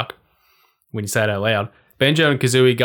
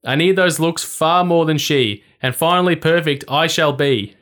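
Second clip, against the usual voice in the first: witch crying out; 4 semitones higher than usual. Acted. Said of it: "she cried".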